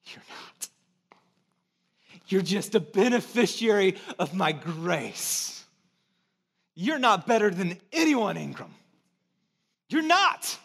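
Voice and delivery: a hushed, firm divine correction; God's gentle rebuke. Retold or imitated. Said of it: "And then God says".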